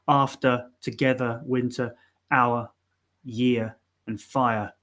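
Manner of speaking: "after, together, winter, hour, year, and fire" each ending in uh; British list, "after" to "fire", R dropped at each end; schwa endings. Shown as a demonstration. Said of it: "they just end with that schwa sound".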